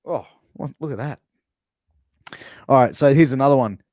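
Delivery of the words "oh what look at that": mock surprise. Shown as a demonstration. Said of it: "an exclamation of surprise".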